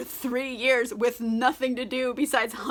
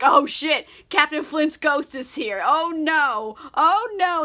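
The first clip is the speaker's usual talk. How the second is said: pirates freaking out, louder as it goes; mock panic; 3 semitones higher, 4 dB louder, slower than usual. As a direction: imitate a spooked crew, rising to the last words. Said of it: "they're all freaking out".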